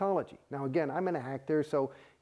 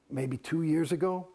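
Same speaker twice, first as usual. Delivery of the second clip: ordinary delivery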